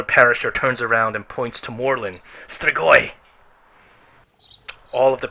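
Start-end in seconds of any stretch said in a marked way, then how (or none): 2.5-3.1 alarmed cry. Acted. Parishioner points, cries out.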